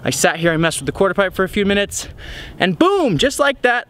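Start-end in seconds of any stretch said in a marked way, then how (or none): 2.6-3.9 excited burst. Real, not acted. Excited retelling of landing trick.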